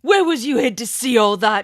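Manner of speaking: startled, suspicious outburst; frightened cry. Acted. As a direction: spit it out, alarmed and wary. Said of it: "he cried".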